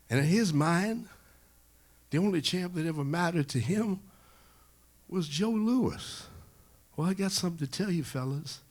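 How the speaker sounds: high, emphatic champion's speech; champion lecturing his entourage. Acted. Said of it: "criticizing his entourage".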